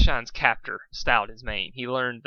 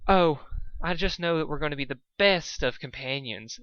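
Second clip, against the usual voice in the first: sly smile; 4 semitones higher than usual. Acted. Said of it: "she said with a sly smile".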